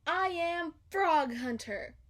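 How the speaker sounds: high, slow proud call; shouted. Acted. Girl shouting her hunter name to the dog, proud. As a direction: announce yourself like a hero, slowly. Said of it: "shouted Maggie".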